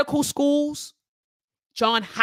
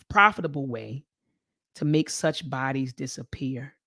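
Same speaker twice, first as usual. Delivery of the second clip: fighting tears; 7 semitones lower than usual. Real, not acted. Rereading the passage to family while near tears, grieving. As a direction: reread it as if it hurts to say. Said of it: "I'm trying not to cry".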